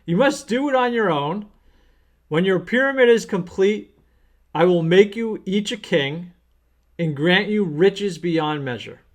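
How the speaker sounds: lightly voiced pharaoh decree, easing off towards the end; hint of a pharaoh promising his sons riches. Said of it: "That's my pharaoh voice".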